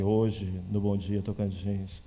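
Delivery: booming deep newsreader; deep low anchor voice. Shown as a demonstration. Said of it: "Aí ele vai falar assim".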